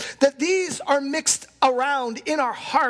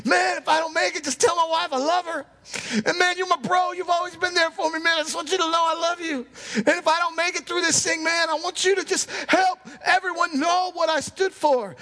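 wounded soldier gasping; 4 semitones higher than usual. Retold or imitated. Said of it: "starting to say some things I'm not really proud of".

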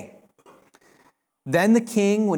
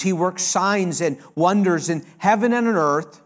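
royal decree; 2 semitones higher than usual. Acted. King Darius proclaims to all peoples, ringing royal decree. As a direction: read it like a king's edict to the world.

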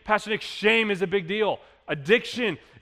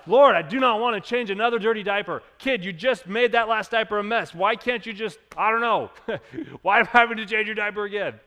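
higher, louder exasperated grumble; mock complaining; 4 semitones higher, 4 dB louder than usual. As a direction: gripe about diapers to God. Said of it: "And we complain".

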